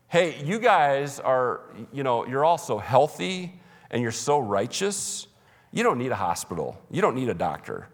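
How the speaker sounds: lightly acted mock praise; sarcasm. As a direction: feign admiration for the self-righteous. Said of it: "The sarcasm that Jesus uses".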